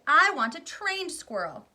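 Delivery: high, very loud tantrum; bratty shout. Acted. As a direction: yell it at mummy. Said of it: "Veruca shouted".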